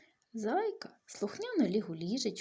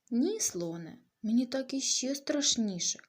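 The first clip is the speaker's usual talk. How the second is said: higher and louder, a frightened little plea; scared bunny; 4 semitones higher, 6 dB louder than usual. Acted. Bunny to the stomping elephant, frightened and louder. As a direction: beg the elephant to stop, half crying.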